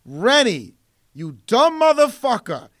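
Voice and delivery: mock angry dressing-down; John McTiernan. Filmmaker chewing out his rival director, mock angry. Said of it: "And John's like".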